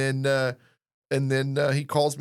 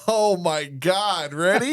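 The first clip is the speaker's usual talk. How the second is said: slow, drawn-out startled gasp of words; mock startled; 4 semitones higher, 3 dB louder, slower than usual. Host asked to pitch Jim, slow mock startled reply. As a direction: pretend to be caught off guard. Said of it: "And I'm like".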